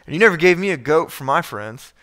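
indignant, stressing NEVER; sulky older son's protest; self-righteous complaint. Retold or imitated. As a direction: throw the grievance at your father. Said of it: "you hear the self-righteousness".

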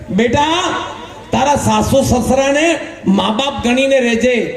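slow, measured paternal advice; solemn fatherly blessing. Acted. Father advising his newly married daughter, solemn slow blessing. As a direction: bless her line by line, drawing words out.

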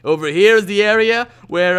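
a lightly voiced swaggering TV house-tour host; MTV Cribs host. Gamer giving a tour of his tree house, playing a cocky Cribs host. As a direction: show off your crib like a celebrity. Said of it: "MTV Cribs".

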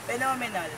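"phenomenal" stressed on its second syllable; "phenomenal" said as phe-NOM-enal. Shown as a demonstration. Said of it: "stress put in second syllable".

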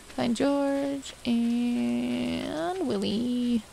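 slow, stretched-out words; drawn out. Real, not acted. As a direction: drag the names out slowly. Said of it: "My voice is cracking".

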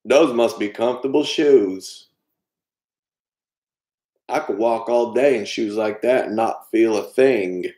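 Forrest Gump. Acted. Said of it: "do the voices".

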